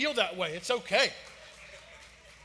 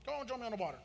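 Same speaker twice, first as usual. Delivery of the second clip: put-on light Southern accent, easy and inviting; a Southern Jesus waving Peter in, in a hint of Southern accent; southern drawl; 3 semitones higher, 7 dB quieter, faster than usual. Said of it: "Jesus being a little bit more southern here".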